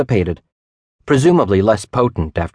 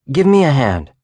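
calling for help; 6 semitones higher, 3 dB louder than usual. A narrator's reading. Straining at stuck door.

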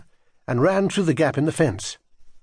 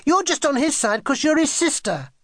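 put-on high, protesting child; unfairly treated, pitched way up; aggrieved accusation; 11 semitones higher than usual. A narrator's reading. Child accuses sister of taking sides.

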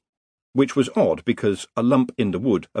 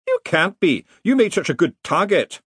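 higher, gloating retort; smug reply; 9 semitones higher than usual. A narrator's reading. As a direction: tease him for being an easy target. Lecturer retorts to the Dean.

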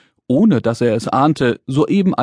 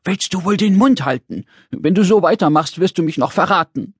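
lightly voiced little man, higher; urgent scolding call; 5 semitones higher than usual. Little man stops Brix from answering, urgent scolding. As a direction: cut her off with an urgent scolding. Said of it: "da rief er im letzten Moment".

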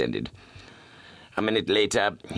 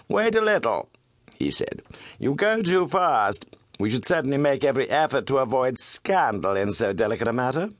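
pressing, raised plea to wait; lightly voiced, urgent Holmes; urgent detective; 8 semitones higher than usual. Holmes stops Milverton leaving.

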